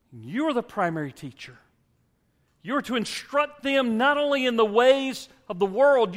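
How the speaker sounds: high, loud preacher's fervor, building to a peak; impassioned preaching. Acted. Pastor urging fathers to teach their children, in fervent preaching. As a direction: drive the point home to the fathers like a revival preacher.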